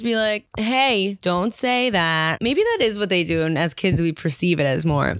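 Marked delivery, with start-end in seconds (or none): 0.6-2.4 slow, measured mild reprimand; drawn-out, understated telling-off; mildly stern. Shown as a demonstration. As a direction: demonstrate a firm correction without yelling. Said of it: "raising your voice and being stern".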